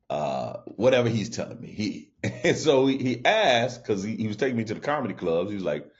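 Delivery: usual speaking voice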